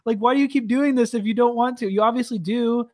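high, laughing disbelief at a freak; laughing rant. Real, not acted.

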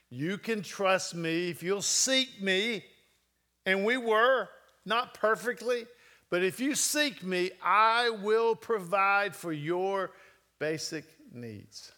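slow, deliberate words of God, rising in pitch; slow solemn promise. Retold or imitated. Preacher voices God's promise to the congregation, slow and solemn. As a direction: lean on each word like a vow. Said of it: "God was teaching me".

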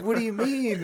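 high, loud hammed-up question; mock dramatic bewilderment. Eugene spinning around over his cramp, mock dramatic. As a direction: imitate a friend making a drama of it. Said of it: "acting dramatic".

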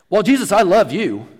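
mock devotion. Absent churchgoer professing love to Jesus, mock devoted. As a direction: imitate an eager profession of love.

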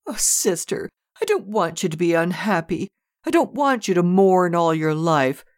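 put-on high, tearful child's plea; a little girl begging through sobs; sobbing child.

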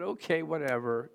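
mild mock pout. Pastor losing the coffee maker in the exchange, pouting. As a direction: give in with a slight sulk. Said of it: "I just pouted".

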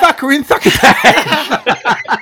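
high, slow hammed-up chef; mock chef voice. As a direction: send up the TV cook. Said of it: "You go".

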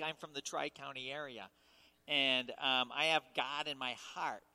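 exaggerated nasal upstate New York Syracuse accent. Shown as a demonstration. Preacher mocking his Syracuse hometown, exaggerated Syracuse nasal accent. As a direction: talk through your nose like a Syracuse local. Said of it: "We talk through our noses".

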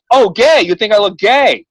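feigning a sudden realization to the landlady; acting dumb. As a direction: play dumb on purpose. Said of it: "I'm acting stupid".

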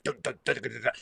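vocal riff imitation; humming the riff. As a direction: mimic a heavy guitar riff with your voice. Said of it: "it's like".

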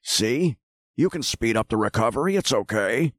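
light impression of a reassuring older man; lightly voiced, calm and soothing; G. Gordon Liddy impression. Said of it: "Nothing about that great impression?".

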